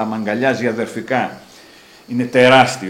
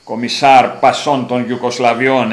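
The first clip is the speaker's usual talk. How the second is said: slow, louder, puffed-up title; grand boast; 3 semitones higher, 8 dB louder, slower than usual. Retold or imitated. Giant boasting about his rank, slow and grand. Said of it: "εκεί με διαβεβαιώνει".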